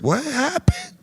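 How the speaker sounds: high, hushed baffled question; a quiet what-just-happened; stunned. Retold or imitated. Two friends exchanging looks after the insult, stunned question. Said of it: "we looking at each other like".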